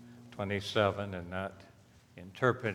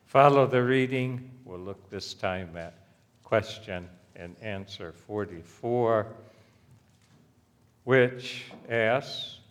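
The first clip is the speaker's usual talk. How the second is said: ordinary talk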